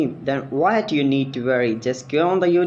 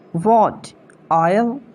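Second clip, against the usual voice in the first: surprised; 6 semitones higher, slower than usual. Real, not acted. Shocked at being corrected.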